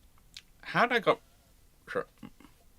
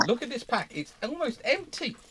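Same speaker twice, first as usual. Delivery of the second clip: high pet talk; 9 semitones higher, 5 dB louder than usual. Real, not acted. Owner teasing the dog about the nearly empty biscuit pack, high cooing baby talk.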